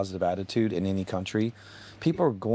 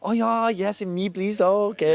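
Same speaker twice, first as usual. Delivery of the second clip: much higher, hammed-up imitation of a foreign accent; mock Asian accent; 13 semitones higher, 5 dB louder than usual. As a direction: squeak it out like a tourist faking the local accent. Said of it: "Did you just use the accents?".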